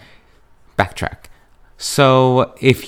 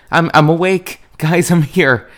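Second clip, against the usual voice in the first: higher, louder call to the whole house; playful just-woke-up call-out; mock announcing call; 8 semitones higher, 3 dB louder than usual. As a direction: announce yourself to everyone at home. Waking from a nap, announcing herself.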